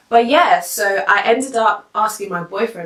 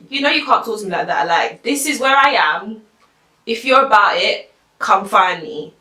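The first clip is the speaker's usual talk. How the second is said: mildly raised voice, imitating a challenge; retold hollering; 3 semitones higher, 4 dB louder than usual. Guy hollering back at Berry's boyfriend, in a mild retold holler. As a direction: imitate him squaring up, a little louder. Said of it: "he's hollering back at this".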